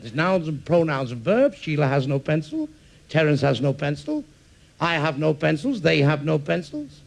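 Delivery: lightly acted classroom recitation; measured list, each example lifting at the end; teacher's grammar drill. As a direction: recite it as a patient grammar lesson.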